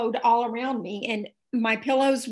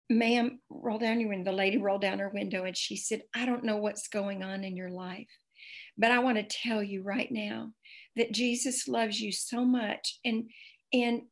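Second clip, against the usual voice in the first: 1 gentle reassurance; 5 dB quieter than usual. Retold or imitated. Friend gently witnesses to stranger.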